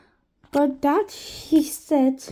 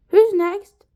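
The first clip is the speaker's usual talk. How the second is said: villain voice; 8 semitones higher, 9 dB louder than usual. A narrator's reading. Mr Gorf character voice.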